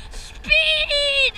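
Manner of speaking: high cheering shout; excited shout. Real, not acted. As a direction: yell it out with glee. Racing down the coaster.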